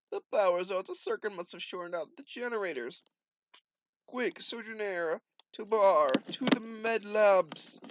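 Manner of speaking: high, loud urgent orders; urgent alarm. Acted. Guardian ordering Sojourner to the med labs, loud urgent alarm.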